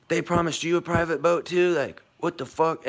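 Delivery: outraged disbelief. Retold or imitated. Scammed tourists on the boat, high incredulous outrage. Passengers realize they were scammed.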